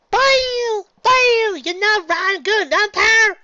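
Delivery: high, loud jeering yell; shouting. Acted. Apple Bloom jeering at the umpire, loud shout. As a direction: jeer at the umpire at full voice. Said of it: "Apple Bloom shouted".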